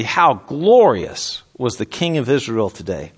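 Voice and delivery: mock admiration, slow and drawn out; slow, sarcastic quote with a punched "glorious". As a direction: lay mild sarcasm on "glorious". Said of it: "she says this really sarcastically".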